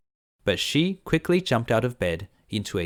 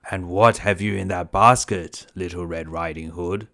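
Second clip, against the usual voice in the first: wolf voice; 3 semitones lower, 4 dB louder than usual. Acted. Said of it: "asked the wolf".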